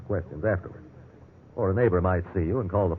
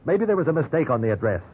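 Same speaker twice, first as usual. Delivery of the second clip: earnest pleading; 5 semitones higher than usual. Acted. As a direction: spell it out, desperate but steady. Suspect begs a phone call.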